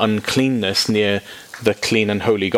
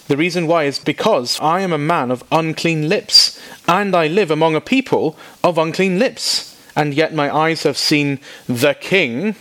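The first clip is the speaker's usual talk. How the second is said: slightly raised, earnest confession; Isaiah confessing unclean lips, a touch raised; lightly voiced Isaiah; 6 semitones higher than usual. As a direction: confess it with a hint of alarm.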